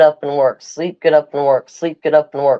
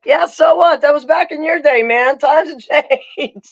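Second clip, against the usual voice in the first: put-on higher, cheeky teen comeback; sassy kid; 8 semitones higher than usual. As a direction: brush off the parents, higher. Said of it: "And I was over here like".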